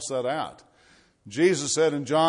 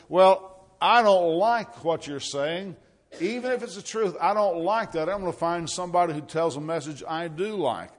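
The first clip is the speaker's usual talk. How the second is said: higher, louder protest, mildly hammed-up; mock objection; 4 semitones higher, 4 dB louder than usual. Preacher voicing religious people who reject the truth, mock objection. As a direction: push back stubbornly in a raised mock voice. Acted objector refusing the message.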